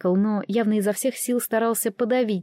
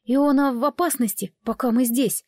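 serious but trembling; 3 semitones higher than usual. Acted. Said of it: "серьёзным, но всё ещё слегка дрожащим голосом".

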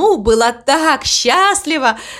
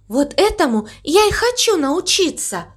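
high, eager cow voice; eager excitement; 6 semitones higher than usual. Acted. Mama Mu wants to learn diving, high and eager. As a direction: raise the pitch with longing. Cow longs to dive too.

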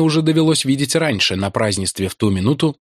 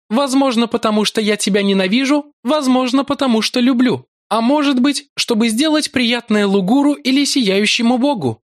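seductive priestess voice; 12 semitones higher than usual. A narrator's reading. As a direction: purr it like a cruel seductress. Yolara's love-hate teasing. (высокий голос коварной соблазнительницы)

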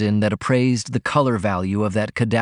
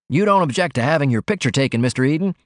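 lightly voiced reporter, higher and quick; a quick, polite request from a young reporter; cub reporter; 4 semitones higher, faster than usual.

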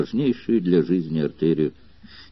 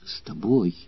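whisper; 5 dB quieter than usual. A narrator's reading. Dying girl whispers to her lover, soft and hushed. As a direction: breathe it to him as she dies. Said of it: "шептала она".

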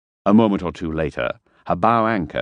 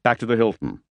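Harper; 6 semitones higher than usual. Acted. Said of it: "he said".

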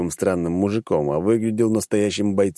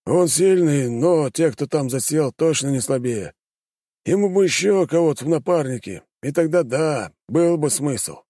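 higher, worried nobleman voice; doubtful prince; 8 semitones higher than usual. A narrator's reading. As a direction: voice a fretting prince. Pozharsky voiced by narrator.

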